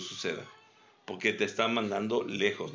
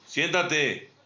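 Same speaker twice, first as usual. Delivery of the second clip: raised tone; 3 semitones higher than usual. Shown as a demonstration. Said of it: "sube el tono".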